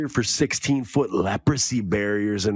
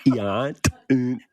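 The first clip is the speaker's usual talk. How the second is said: slow, eerie programming chant; backwards speech; 3 semitones higher, much slower than usual. Pretend. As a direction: count down like brainwashing a soldier. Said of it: "sounded like you were programming the Winter Soldier".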